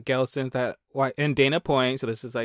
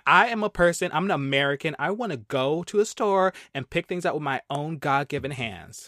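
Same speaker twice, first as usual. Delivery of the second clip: mock Karen. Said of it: "I'm gonna be Katie".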